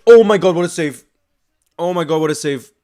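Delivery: loud, high, stunned exclamation; can't believe that save; overwhelmed shouting at the screen; excited disbelief. Real, not acted. Reacting live to the save.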